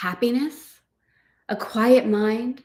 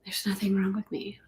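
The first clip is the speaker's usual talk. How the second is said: whispered affirmation; 11 dB quieter than usual. Shown as a demonstration. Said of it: "You can say it to yourself".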